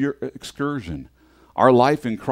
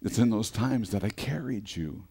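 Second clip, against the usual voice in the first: tender reply; 5 dB quieter than usual. Retold or imitated. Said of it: "He says".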